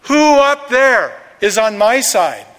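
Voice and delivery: slow, high, loud call upward; drawn-out shout from below; acted yell. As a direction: holler it up to people in the house. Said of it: "the man below yells".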